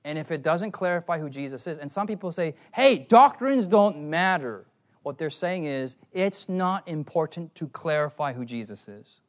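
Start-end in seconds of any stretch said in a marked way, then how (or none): 2.7-4.7 loud mock objection. Voices dismissive people's objection.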